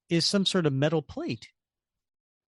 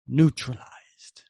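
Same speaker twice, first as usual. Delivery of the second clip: slow whispered threat; menacing whisper; 4 dB louder, slower than usual. Acted. Red Skull orders the stranger neutralized, slow whisper. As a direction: breathe the word out slowly.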